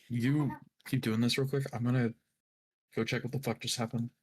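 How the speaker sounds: talking around a mouthful of food; words muffled by chewing; mouth full. Real, not acted. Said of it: "I have food in my mouth".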